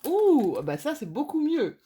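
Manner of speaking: high, loud "ouh" of relief; light up at the better card; pleased surprise. Real, not acted. Reader reacting to a better tarot card, relieved.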